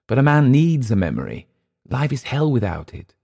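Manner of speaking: high start, earnest halting confession; confessional Englishman. Acted. Clift confessing his decline to Emile, confessional. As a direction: admit it haltingly, rising on the key points.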